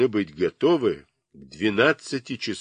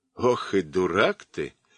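scornful, dismissive, contemptuous tone. Narrator voicing a moose replying to another character, with contempt. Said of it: "с презрением произнес лось".

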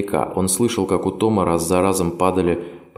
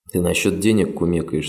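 ordinary delivery

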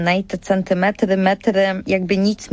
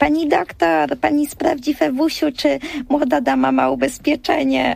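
mock high, rough voice calling out; 7 semitones higher than usual. Recalling the nurse at the doctor's, retelling her call across the waiting room. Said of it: "przez całą czekalnie".

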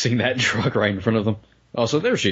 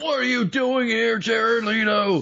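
loud, higher-pitched shout; 13 semitones higher than usual. Watching a movie with another viewer, yelling at an actor's face on screen: yelling at the screen. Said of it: "Just yelling at his face".

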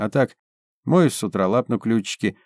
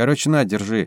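ordinary delivery

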